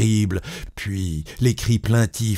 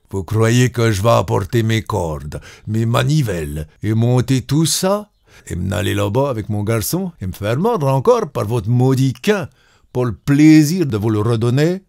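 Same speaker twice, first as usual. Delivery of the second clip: indignant workman. Acted. Well-digger's indignant refusal.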